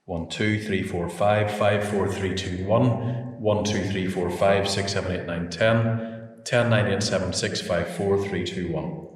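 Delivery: steady counting into the microphone; mic check. Real, not acted. Engineer testing the microphone, counting steadily. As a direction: count evenly to test the mic.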